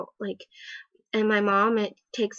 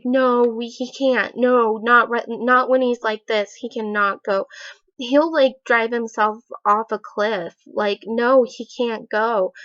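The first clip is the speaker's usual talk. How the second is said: louder, emphatic retold pleading; moderately raised voice, imitating a panicked refusal; mock insistent protest; 2 semitones higher, 6 dB louder than usual. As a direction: protest firmly, as if retelling an argument. Acted protest in retold argument.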